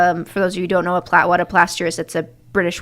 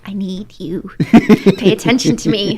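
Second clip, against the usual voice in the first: mock pleading; 4 dB louder than usual. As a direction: imitate a needy crush begging. Smitten mom begs for attention.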